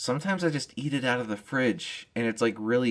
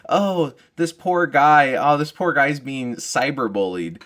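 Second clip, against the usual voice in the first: mock pity; 3 semitones higher, 5 dB louder, slower than usual. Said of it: "I'm like".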